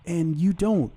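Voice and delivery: mock a whiny guest's question; high mocking voice. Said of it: "someone's like".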